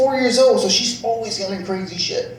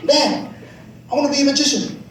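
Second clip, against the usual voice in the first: little daughter; 6 semitones higher, faster than usual. Retold or imitated. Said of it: "she comes up to me".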